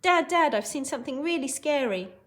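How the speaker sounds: scared boy's mock shout; high, loud burst calling for Dad; Hogarth. Teacher acting frightened Hogarth to Dad, mock shout. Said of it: "He's very scared at this point".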